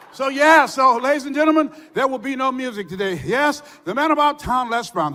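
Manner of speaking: a hint of a showman DJ intro; lightly hammed on-air sign-off; radio host intro. DJ announcing no music today to his listeners, lightly showy. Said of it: "on the air".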